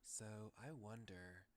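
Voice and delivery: acted reading of a game hero's thoughts; visual-novel monologue. Game protagonist deciding whom to visit, theatrical musing. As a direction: muse it through theatrically.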